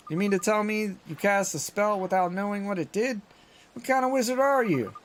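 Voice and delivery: high, teasing disbelief; incredulous Drippy. Acted. Drippy teasing Oliver about the spell, incredulous. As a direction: scoff at the clueless wizard.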